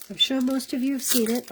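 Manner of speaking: whistling on the s sounds; no front teeth. Real, not acted. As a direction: air whistles through the teeth on sure. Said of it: "listen to me whistle".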